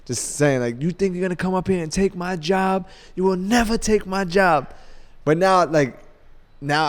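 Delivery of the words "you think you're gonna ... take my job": high-pitched mock rant; imitated screaming. Veteran warning newcomer off his job, mock scream. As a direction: imitate a territorial boss, without full volume. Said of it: "just screaming, screaming".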